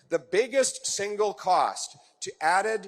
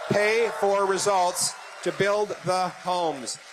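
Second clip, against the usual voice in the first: slow rally shout; slower than usual. Real, not acted. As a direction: shout it slowly to the crowd. Rally applause line.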